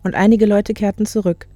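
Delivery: measured audiobook reading; composed literary narrator; story narration. A narrator's reading. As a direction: tell it clearly, phrase by phrase. Reads novel excerpt aloud.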